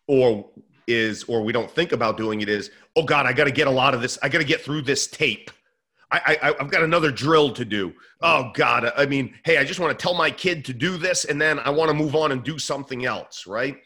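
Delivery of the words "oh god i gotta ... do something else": lightly acted impatient inner monologue; mock rushed, put-upon coach; harried coach. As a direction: rattle through it like there's too much to do. Voices a rushed coach's thoughts.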